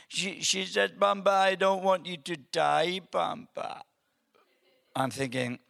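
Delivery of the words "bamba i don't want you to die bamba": higher, mildly hammed-up weepy child; imitated tearful child. Granddaughter begs granddad not to die, mock tearful. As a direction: plead like an upset little girl. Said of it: "why are you crying".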